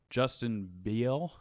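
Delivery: slow Southern drawl on Beal; southern accent. Real, not acted. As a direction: stretch the name in a Southern accent. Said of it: "You said that in a really southern accent".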